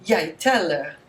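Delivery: Jeg teller said yai TEL-leh; Norwegian pronunciation. Shown as a demonstration. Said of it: "That's quiet".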